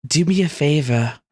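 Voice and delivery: lightly voiced villainess, taunting calmly. Game master plays villainess.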